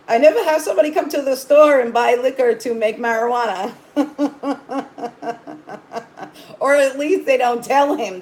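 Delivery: high, loud and quick, through laughter; amused retelling. Retold or imitated. Retelling clerk's reaction to viewers, laughing as she talks. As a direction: retell it while cracking up.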